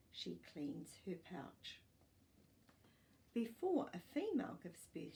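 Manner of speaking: put-on clear, even storybook reading for young pupils; reading to children. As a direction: read it like a class picture book. Teacher reads picture book aloud.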